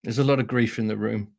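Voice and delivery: said very quietly and gravely; quiet, ominous line. Retold or imitated. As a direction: drop it low and hushed to unsettle adults. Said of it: "she'd just very quietly say".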